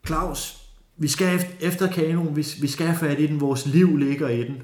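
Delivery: high, urgent shouted orders; shouting to Claus to run after the canoe, high and urgent; retold shout. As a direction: yell to chase the canoe, lives at stake. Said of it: "Og så råber jeg til Claus".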